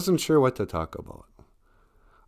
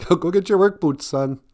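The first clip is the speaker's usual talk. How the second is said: higher, louder parental order; blue-collar parent; 9 semitones higher, 4 dB louder than usual. Acted. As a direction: order your son like a working-class parent. Mimics an old blue-collar parent.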